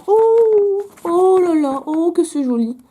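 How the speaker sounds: exclamation haute, longs « oh »; découvre un cadeau et émerveille-toi, voix haute; émerveillement. Real, not acted. Découvre un dessin, s'émerveille. (émerveillée, voix qui monte)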